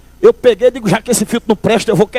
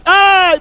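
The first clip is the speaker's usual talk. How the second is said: yelp of pain; 6 semitones higher than usual. Retold or imitated. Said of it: "dá um grito".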